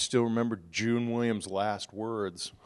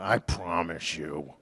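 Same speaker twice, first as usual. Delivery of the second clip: solemn promise; 6 semitones lower, slower than usual. Retold or imitated. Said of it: "I gripped my teeth".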